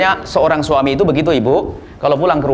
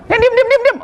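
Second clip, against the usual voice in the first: laughing hush. Acted. Hushing, laughing.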